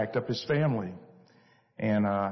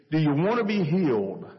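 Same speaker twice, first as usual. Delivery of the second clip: higher, louder, a gentle but urgent Jesus asking; Jesus at the pool asks the lame man, earnest and raised; 4 semitones higher, 4 dB louder than usual. Acted. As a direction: reach out to the lame man with the question.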